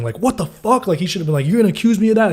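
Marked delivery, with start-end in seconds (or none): 0.2-0.9 high-pitched outrage at normal volume; mock yell. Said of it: "should have been yelling". 1.5-2.3 high-pitched indignant disbelief; mock outrage. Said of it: "He should have went crazy".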